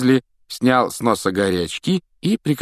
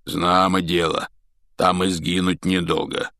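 wheezed. Acted. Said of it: "прохрипел Хагрид".

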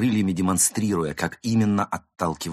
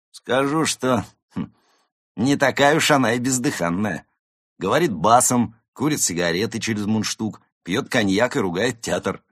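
higher, louder, self-important account; tipsy cat reporting; 5 semitones higher, 6 dB louder than usual. Acted. Cat describing the actress to friends, self-important. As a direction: deliver findings with relish after a thinking hum.

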